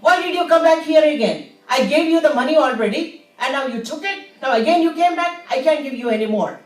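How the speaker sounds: loud, fast scolding; angry yelling. Acted. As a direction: yell him out of the shop. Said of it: "yells at him".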